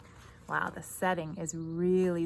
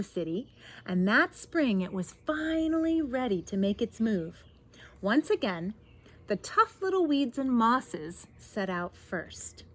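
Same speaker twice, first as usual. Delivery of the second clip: expressive read-aloud with stretched key words; picture-book narration; 4 dB louder than usual. A narrator's reading. Reader tells children of the spreading garden, animated storytelling. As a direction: tell it to children with lilting emphasis.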